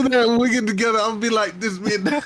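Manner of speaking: excited. Real, not acted. Excited plan.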